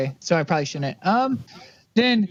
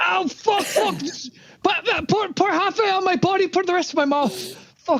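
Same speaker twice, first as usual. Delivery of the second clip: high, fast, giddy celebration; laughing over the top; wild laughing excitement; 10 semitones higher than usual. Real, not acted.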